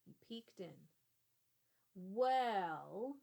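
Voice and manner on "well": put-on sudden loud sharp old man's "Well". Old man startling the kids at his door, sharp and loud. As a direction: startle the boys with one sharp word. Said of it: "a sharp voice startled Sam".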